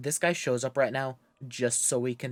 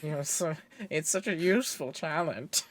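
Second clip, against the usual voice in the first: nasal knockoff Squidward voice; mock the villain's nerdy voice; Squidward impression; 5 semitones higher than usual. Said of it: "he sounds like a knockoff Squidward".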